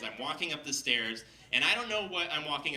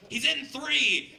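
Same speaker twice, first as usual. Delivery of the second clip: high, loud, drawn-out holler; mock triumphant shout, pitched way up; calling out; 12 semitones higher, 8 dB louder, much slower than usual. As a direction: imitate an oddball yelling the answer. Bearded wizard calls out the apartment.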